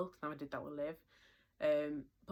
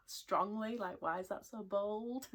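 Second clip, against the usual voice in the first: laughing disbelief; 5 semitones higher, slower than usual. Real, not acted. Laughing at the bold prediction.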